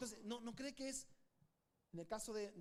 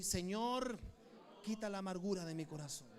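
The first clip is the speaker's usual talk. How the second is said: louder, fervent "Señor" then pleading line; loud prayer; 5 semitones lower, 3 dB louder than usual. Shown as a demonstration. Preacher leading the congregation in prayer, loud and fervent. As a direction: call it out to heaven.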